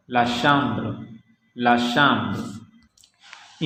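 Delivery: लतांत, ब्लां, बियां, शाम्ब्र with nasal आ; French nasal AN. Shown as a demonstration. Teacher giving French examples twice each, nasal आ in लतांत, ब्लां. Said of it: "इन syllables का sound आ होता है".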